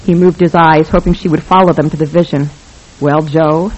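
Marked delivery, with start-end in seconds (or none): 3.0-3.7 a hint of a husky film star drawl, lightly voiced; Lauren Bacall voice. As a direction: play the cool screen siren, just barely. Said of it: "in her Lauren Bacall voice".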